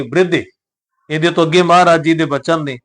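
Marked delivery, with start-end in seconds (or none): 0.0-0.4 "ਬ੍ਰਿਧੇ" with b and r joined, short i after the r; half rara. Shown as a demonstration. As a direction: say "ਬ੍ਰਿਧੇ" as bri-, not bir-. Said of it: "ਉਹਦੇ ਉੱਪਰ ਹੀ ਉਚਾਰਨ ਕਰਾਂਗੇ". ("ਬ੍ਰਿਧੇ" ਵਿੱਚ ਬੱਬੇ ਨਾਲ ਅੱਧਾ ਰਾਰਾ, ਸਿਹਾਰੀ ਉਹਦੇ ਉੱਪਰ)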